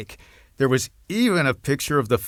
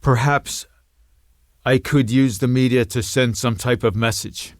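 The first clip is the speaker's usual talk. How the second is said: trained voice; 3 semitones higher, 3 dB louder than usual. Acted. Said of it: "in his trained voice".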